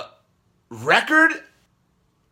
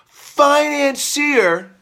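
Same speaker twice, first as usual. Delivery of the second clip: very slow, higher, sarcastic financier; mocking the word; 5 semitones higher, much slower than usual. Mocking the media's label mid-rant, very slow. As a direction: drag out financier with scorn. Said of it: "financier, they say".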